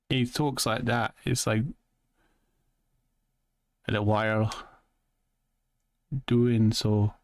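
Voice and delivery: imitation of another man's twang; lightly imitated twangy accent. Shown as a demonstration. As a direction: talk with a put-on twang, feeling out the inflections. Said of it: "like, a little twang in his voice".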